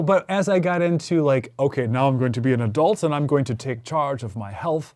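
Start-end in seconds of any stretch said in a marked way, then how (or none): 1.6-4.9 faintly English, resolute grown-up; lightly English-accented self-declaration; slight English accent. Acted. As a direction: let a hint of English accent slip in. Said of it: "I suddenly had a slight English accent".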